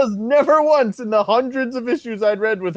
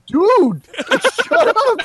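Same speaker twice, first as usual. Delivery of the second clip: higher, louder mock "shut up" outburst; mock yell at Ruffalo; 5 dB louder, slower than usual. Retelling Don Cheadle's reaction to Ruffalo, a hammed-up loud high yell. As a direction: bark it to silence a blabbing co-star.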